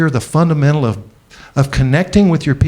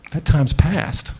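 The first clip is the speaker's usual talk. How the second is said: a friend gently breaking hard news; gentle loving advice; 3 dB quieter than usual. Retold or imitated. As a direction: tell him tenderly that it's time to let go. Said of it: "with as much love as he could muster".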